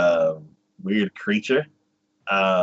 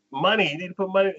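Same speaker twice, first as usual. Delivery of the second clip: higher, fast imitation of the creature's demand; quick high creature insisting; mock creature demand; 8 semitones higher, faster than usual. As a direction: rattle it off high and pushy. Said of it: "he's like".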